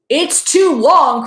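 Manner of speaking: high, slow outcry of doubt; crying out. A narrator's reading. Cousins protesting the bridge, drawn-out cry. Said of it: "cried her cousins".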